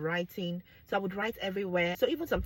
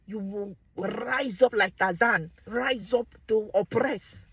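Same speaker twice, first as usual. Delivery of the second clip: loud and slow, mocking; mock Tarzan husband; 9 dB louder, slower than usual. Mocking husbands who rise up like Tarzan, loud and slow.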